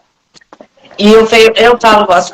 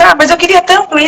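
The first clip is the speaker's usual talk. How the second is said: higher pleading husband voice, lightly mocked; whiny husband; 7 semitones higher than usual. Wife mocking her husband's pleading, whiny and higher. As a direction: mimic the husband begging to go. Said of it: "Aí ele fala assim".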